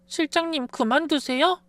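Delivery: a lightly voiced nurse, alarmed; nurse's voice. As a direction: voice a worried young nurse.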